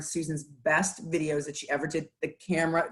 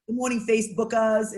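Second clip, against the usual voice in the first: put-on Boston accent; 5 semitones higher than usual. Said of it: "very heavy Boston accent".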